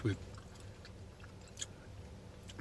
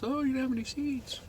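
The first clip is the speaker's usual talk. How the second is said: high-pitched mock New England accent; 13 semitones higher than usual. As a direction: imitate a Boston accent, pitched way up. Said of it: "I totally sound like a New Englander".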